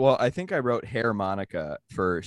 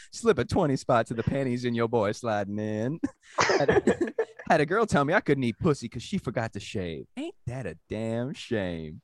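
put-on swaggering Black American accent, pitched up; imitated Black American accent; 4 semitones higher than usual. Comic performs his joke for friends, imitated Black American accent. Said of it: "you read it with a black accent".

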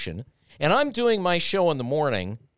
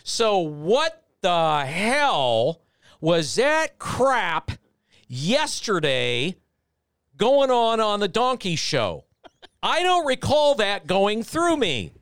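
mock angry boss; 4 semitones higher, slower than usual. GM scolding Carl in meeting.

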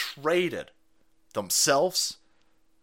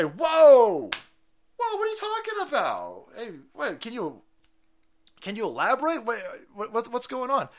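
mock alarmed hosts; 7 semitones higher than usual. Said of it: "they didn't say".

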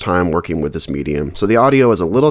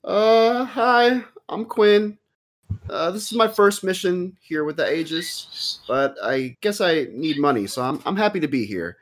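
put-on much higher, timid young halfling voice; nervous halfling; 10 semitones higher than usual. Halfling Quinn nervously introduces himself to the office woman, high timid voice. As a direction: squeak it out like a shy newcomer. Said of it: "steps forward and says".

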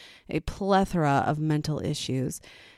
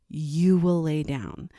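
stern slow command; 3 dB louder, slower than usual. Retold or imitated.

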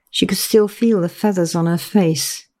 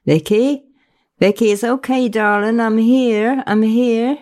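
higher-pitched, soothing reassurance; comforting; 6 semitones higher than usual. A narrator's reading. Friend soothing a sobbing woman on the phone, comforting. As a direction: coax her gently, phrases lifting. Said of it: "Faye began to mumble comforting noises".

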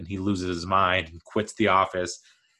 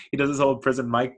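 laughing, a bit faster; laughing while talking; 4 semitones higher, faster than usual. Real, not acted. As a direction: chuckle through the line.

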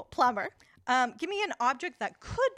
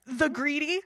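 dramatic trailer narration with laughs; movie trailer voice; 2 semitones higher, 3 dB louder than usual. Pretend. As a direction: announce it like a film trailer. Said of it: "make that trailer".

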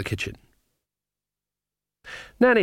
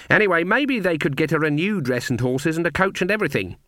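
higher-pitched witch with a hint of argument; lightly voiced insistent witch; 6 semitones higher than usual. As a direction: argue back as a lightly played witch.

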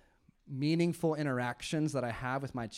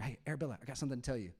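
hushed and close, like at her bedside; soft whisper to daughter; 5 dB quieter, much faster than usual. Retold or imitated. Dad tells his little daughter at bedtime, softly. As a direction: lean in and say it softly. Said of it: "I whisper".

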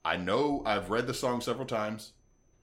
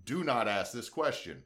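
vast deep cosmic voice; 3 semitones higher than usual. Retold or imitated. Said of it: "he's like".

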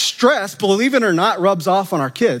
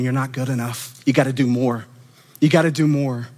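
inner voice; 6 semitones lower than usual. Retold or imitated. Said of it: "that voice in your head going".

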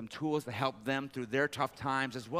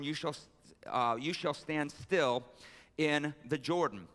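raised, measured Bible reading voice; scripture reading; 3 semitones higher than usual. Acted. Pastor reading Joshua chapter three to his church, measured. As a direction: read the passage to the church with weight.

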